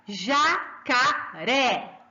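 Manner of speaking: slow ja, ca, RÉ with the last one strongest; stress on final syllable. Shown as a demonstration. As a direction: break jacaré into three beats and land hard on RÉ. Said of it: "Olha como eu falo alto".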